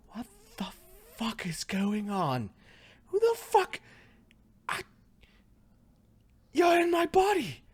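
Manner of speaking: high-pitched, panicked shriek at an intruder; outraged yelling. Acted. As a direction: yell in shock at whoever has invaded you. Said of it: "She's yelling".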